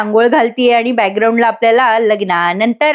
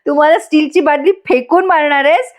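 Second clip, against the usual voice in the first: mock yelling; 4 semitones higher than usual. Imitating Jiva yelling up at Nandini about the bucket, mock yell. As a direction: imitate an indignant yell without the volume. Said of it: "तो ओरडून म्हणतो".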